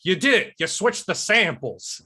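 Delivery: Harrison Ford. Acted. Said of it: "recreation of Harrison Ford's speech".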